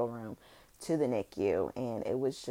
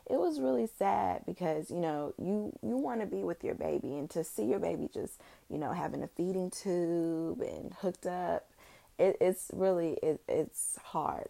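holding back tears; 4 semitones higher than usual. Real, not acted. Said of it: "And I'm trying not to cry".

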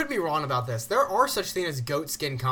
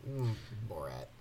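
Borat voice; 6 semitones lower, 10 dB quieter than usual. Retold or imitated. Borat impression after "sexy time.

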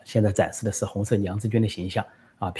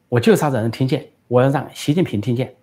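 raised, louder voice with defiant insistence; loud defiance; 4 semitones higher, 4 dB louder than usual. Retold or imitated. Daughter defying her worried father, loud. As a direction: say it out loud on purpose so it is heard. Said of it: "孟晚舟大声说".

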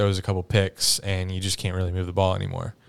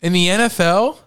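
high, loud disbelief; stunned, voice shooting up; incredulous; 10 semitones higher, 5 dB louder than usual. Real, not acted. Disbelieving question about the score.

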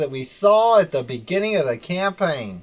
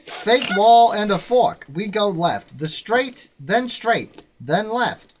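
put-on old-time serial announcer recap; Legend of Korra announcer; 2 semitones higher than usual. Game master recaps the adventure to players, announcer voice. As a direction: punch out each phrase like an episode recap. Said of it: "I'll be the announcer from The Legend of Korra".

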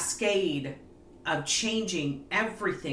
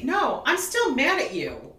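imitating wife; 8 semitones higher, 4 dB louder than usual. Wife voiced in story.

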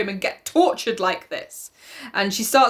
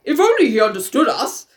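"If only he understood us" lifting at the end; lightly mocked rise on "understood us"; rising intonation; 3 semitones higher, 5 dB louder than usual. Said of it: "with rising intonation".

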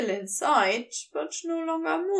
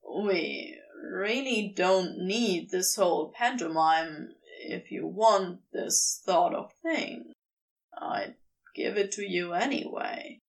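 Crowley, gentle offer; 6 semitones lower than usual. Acted. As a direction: offer it low and plain.

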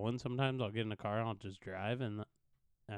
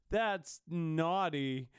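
slow, higher mock scolding; imitated shocked parents; 5 semitones higher, 4 dB louder, much slower than usual. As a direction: mimic parents tutting, drawn out. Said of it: "they're all like".

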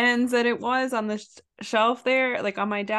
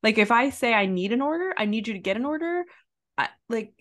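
exasperated rant; 6 semitones higher than usual. Retold or imitated. Retelling her rant to the coworker, high exasperated scolding. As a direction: tear into the clueless coworker, voice climbing.

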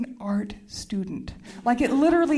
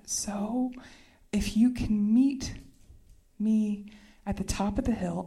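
retold subdued call; 4 semitones lower, 5 dB quieter than usual. Retold awkward emergency call.

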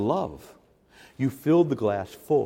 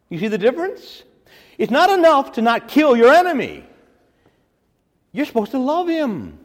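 much higher and louder, pressing hard; fervent exhortation; 12 semitones higher, 7 dB louder than usual. Real, not acted. Preacher urging his flock to love enemies, loud. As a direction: drive the point home with force.

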